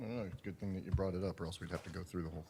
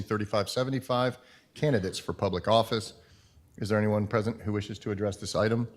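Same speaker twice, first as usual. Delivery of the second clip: steady formal read of the agenda; formal meeting chair; 5 semitones higher, 14 dB louder than usual. Acted. Chair reads meeting procedure.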